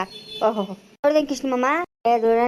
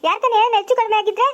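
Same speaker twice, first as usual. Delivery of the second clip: angry rant; 5 semitones higher than usual. Acted. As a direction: tear into the bride's father, outraged. Mother-in-law furious about the daughter-in-law. (ಸಿಟ್ಟಿನಿಂದ ಜೋರಾಗಿ ಬೈಯುವುದು)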